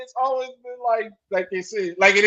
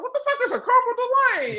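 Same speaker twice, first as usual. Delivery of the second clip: mock outrage; 10 semitones higher, faster than usual. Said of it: "And I was like".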